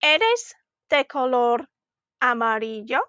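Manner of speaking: slow "Eres de color amarillo", pausing before "amarillo" and turning up at its end; "Eres de color amarillo" with an upturn on the last syllable; rising question. Shown as a demonstration. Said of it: "our voice was going up at the end".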